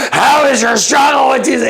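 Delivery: a high shouted question; shouting. Retold or imitated. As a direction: yell it as she lunges. Woman jumps up, shouting.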